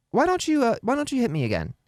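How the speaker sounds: casual, unthreatening parent demonstration; calm invitation. Shown as a demonstration. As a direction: offer it lightly, without any threat. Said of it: "very calmly say".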